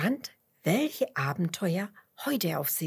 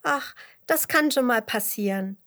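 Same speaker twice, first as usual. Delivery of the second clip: higher, louder cheery consolation; tröstend; 5 semitones higher, 6 dB louder than usual. A narrator's reading. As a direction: brush the worry away kindly. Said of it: "tröstet Dotti die kleine Schnecke". (aufmunternd tröstend)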